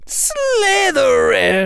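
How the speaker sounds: very high, loud, slow proclamation; booming announcement. Acted. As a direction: announce it to the whole hall. The hat announces the House.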